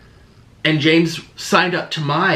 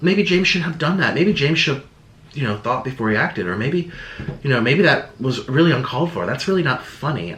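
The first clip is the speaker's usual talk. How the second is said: mock sympathetic commenters; 3 semitones higher than usual. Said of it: "people would be like".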